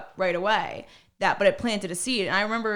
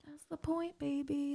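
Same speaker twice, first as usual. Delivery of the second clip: teasing; 7 semitones higher, 12 dB quieter, slower than usual. Retold or imitated. Teasing answer to a guy.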